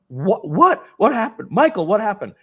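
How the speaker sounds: wife startled by the call; alarmed wife. Retold or imitated.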